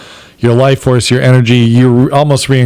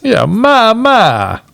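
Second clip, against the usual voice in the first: put-on Southern accent; 11 semitones higher, much slower than usual. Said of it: "he'll do the accents".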